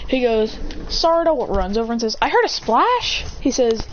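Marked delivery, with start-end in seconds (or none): 2.2-3.2 put-on high, slow girlish call. Sarada running over after the splash, high slow girl voice. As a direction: pitch up and stretch it like a girl.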